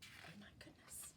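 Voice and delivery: whispered shocked aside; hushed aside. Acted. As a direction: breathe it out in shock. Reader reacts to fairies' plan.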